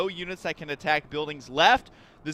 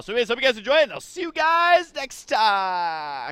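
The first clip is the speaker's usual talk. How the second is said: stifling laughter; 4 semitones higher than usual. Real, not acted. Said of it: "I can't even do it with a straight face".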